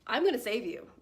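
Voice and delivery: a loud mock-desperate promise; desperate girlfriend. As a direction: swear it like a clingy, desperate girlfriend. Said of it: "a desperate girlfriend".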